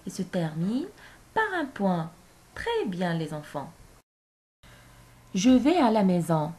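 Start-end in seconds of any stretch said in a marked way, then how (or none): 5.3-6.5 phrase modèle lue. Shown as a demonstration. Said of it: "Regardez bien cette phrase".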